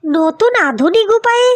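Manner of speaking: a lightly mocking question thrown back; sarcastic echo. Wife throws the husband's boast back at him, mildly sarcastic. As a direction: repeat his phrase back with mild scorn.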